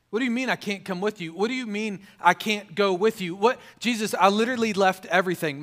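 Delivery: exasperated disciple demanding an explanation; incredulous protest. Acted. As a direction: plead your case as a bewildered disciple. Voicing disciples protesting to Jesus.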